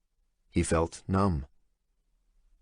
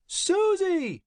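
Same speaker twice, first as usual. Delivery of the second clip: yelling. A narrator's reading. Jake yells again for his assistant, exasperated yell. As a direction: yell it across the room, fed up. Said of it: "he yelled again".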